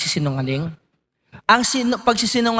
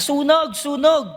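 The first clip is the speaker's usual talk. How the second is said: mock alarm shout, pitched up; sigaw na sunog; 6 semitones higher than usual. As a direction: call out fire like a prankster. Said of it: "Sumigaw siya". (pasigaw na pagkukunwari)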